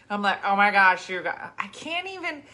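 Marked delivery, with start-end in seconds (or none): 0.4-1.5 put-on Jersey accent. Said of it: "it is such a Jersey accent".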